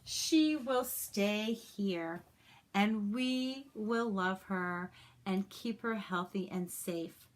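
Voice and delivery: slow, gentle reassuring teacher. Acted. A touch of a teacher reassuring the students. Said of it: "Miss Lake reassured the students".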